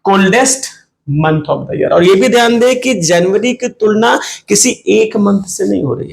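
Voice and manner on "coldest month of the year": coldest month of the year spoken very slowly; slow dictation. Shown as a demonstration. Teacher dictates the example sentence to the class slowly. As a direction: dictate it slowly so students can write.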